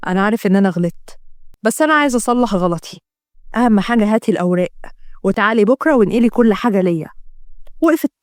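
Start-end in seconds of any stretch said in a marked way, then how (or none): 0.1-7.1 put-on slightly lowered older man's voice; coaxing father. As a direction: lightly voice a father coaxing his daughter. (صوت أب يستميل ابنته)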